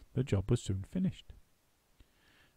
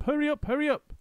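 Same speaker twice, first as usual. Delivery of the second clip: high, louder, rushing orders; high, loud monkey foreman; bossy excited monkey; 13 semitones higher, 5 dB louder than usual. A narrator's reading. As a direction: drive the crew like a frantic foreman. Mugglewump giving orders.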